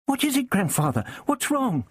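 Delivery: put-on high, anxious young girl's voice; anxious granddaughter. Frightened granddaughter to the staggering doctor, high and anxious.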